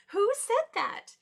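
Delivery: high, loud, drawn-out question; startled question. Acted. The animals look round again, loud and startled. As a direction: stretch it out in loud bewilderment.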